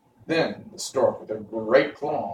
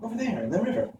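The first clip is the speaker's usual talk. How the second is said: put-on girl's voice, pitched much higher; a young girl, higher and earnest; Dorothy voice; 10 semitones higher, 3 dB quieter, much faster than usual. A narrator's reading. Dorothy to friends on the riverbank, higher and earnest. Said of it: "answered the girl".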